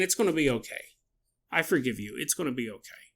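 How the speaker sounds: soft, low, consoling quote; gentle reassurance. Retold or imitated. Podcaster imitating a voice consoling someone, gently reassuring.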